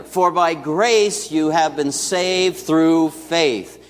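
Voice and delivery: slow, measured scripture reading; slow unison verse; congregational recitation. Shown as a demonstration. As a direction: read it aloud together, unhurried. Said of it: "let's say this together".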